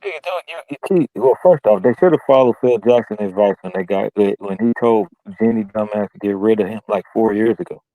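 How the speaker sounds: muffled, like through a wall; sounding muffled through a wall. Real, not acted. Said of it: "you sound muffled".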